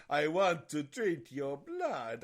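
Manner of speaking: put-on Dracula accent. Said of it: "Dracula these days without sounding like a Nazi".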